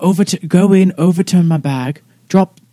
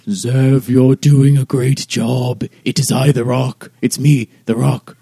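a touch lower, slow stone voice; lightly voiced, solemn rock; talking rock; 4 semitones lower than usual. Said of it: "using the same rock voice as before".

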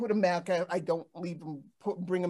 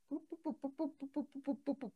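quick playful "boop" for each step; trotting sound effect; 6 semitones higher, 10 dB quieter, much faster than usual. Retold or imitated. Describing the ginger cat strutting up the road, playful boops. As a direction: mimic a cat's brisk little steps.

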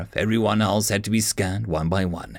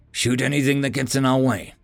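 lightly voiced order; 2 semitones higher than usual. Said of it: "Zoe ordered".

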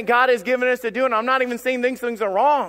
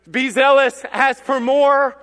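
loud, higher divine order; raised voice, stretched on the last word; forceful command; 5 semitones higher, 5 dB louder, slower than usual. Acted. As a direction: preach it as God's urgent command.

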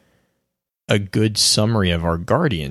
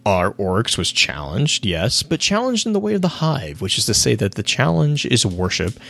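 Toland voice; 4 semitones higher than usual. Acted. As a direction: rant like a gleeful mad prophet. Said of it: "So King's Fall".

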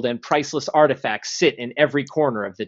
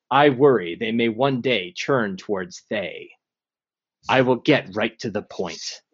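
ancient rasping undead king; 2 semitones lower than usual. Acted. DM voices the lich Zastam.

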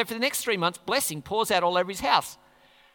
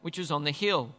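scripture reading. Acted. Preacher reading the passage to the church, measured reading voice. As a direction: read the passage steadily.

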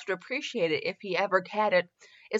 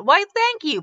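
sneering thanks; 10 semitones higher, 4 dB louder than usual. Acted. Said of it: "calmly and with half a sneer".

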